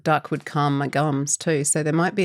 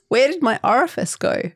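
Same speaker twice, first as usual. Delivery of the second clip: higher, louder mock ad wonder; mock shocked delight; 6 semitones higher, 4 dB louder than usual. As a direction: ham up the ad's amazement. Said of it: "at the post office have said".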